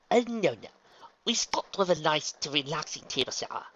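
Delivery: high-pitched, dismissive "no, no"; fussy correction. Acted. Rarity steering Luna from the pool, fussily correcting. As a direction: start high, then ease down coaxingly.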